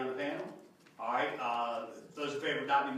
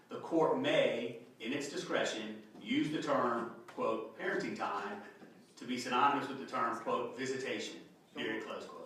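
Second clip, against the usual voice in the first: dictating. Shown as a demonstration. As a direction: read it out word by word. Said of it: "the amendment that would say".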